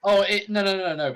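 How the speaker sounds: high, loud startled protest; alarmed. Real, not acted. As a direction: blurt out in alarm.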